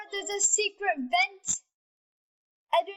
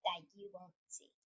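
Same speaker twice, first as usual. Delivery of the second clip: light put-on British accent; a hint of a British accent. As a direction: play it lightly British, casual. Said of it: "Why do I have a British accent?".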